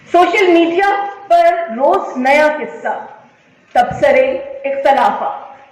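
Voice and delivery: declaimed verse in short, separated phrases; emphatic mushaira-style reading with repeated lines; poem recitation. Acted. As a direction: recite a social-commentary poem to an audience. Recites second poem to audience.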